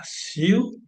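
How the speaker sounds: "ciu" drawn out as one sound; one syllable. Shown as a demonstration. Teacher showing a student the first syllable, "ciu" as one sound. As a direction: say "ciu" slowly as a single syllable. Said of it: "cómo divido yo en sílabas".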